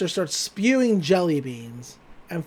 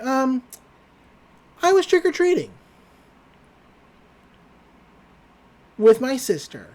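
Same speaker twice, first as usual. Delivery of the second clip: flustered high voice; 6 semitones higher, 3 dB louder than usual. Retold or imitated. Dipper flustered in front of Wendy.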